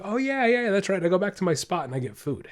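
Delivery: a hint of a happy dog voice; voicing the dog. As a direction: play the dog realizing the treat is coming. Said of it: "Because, like".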